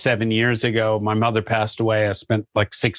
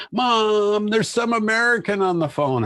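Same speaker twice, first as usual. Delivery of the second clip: put-on high, excited kid calling to mom; kid's voice; 11 semitones higher than usual. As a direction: imitate a child shouting to mom, much higher. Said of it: "they'll go".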